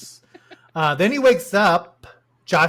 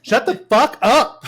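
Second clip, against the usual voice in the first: high, loud, drawn-out mock yell; Abel impression; 8 semitones higher, 6 dB louder, slower than usual. Host mimicking the line you'll hear in your head, mock yell. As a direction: exaggerate a whiny movie-star outburst. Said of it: "without hearing Abel's voice in your head".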